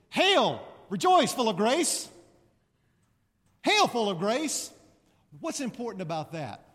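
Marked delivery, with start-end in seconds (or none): 0.1-4.7 loud, high, ringing proclamation; joyful formal hail. Retold or imitated. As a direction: announce it like an archangel. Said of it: "It really is".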